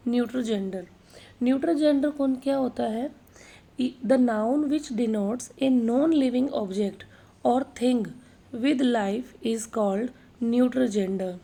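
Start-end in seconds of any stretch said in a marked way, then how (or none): 3.8-11.3 each word spaced out for notes; slow dictation reading. Acted. Teacher dictating a grammar definition to students, slow and deliberate. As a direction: read the definition slowly so students can copy it.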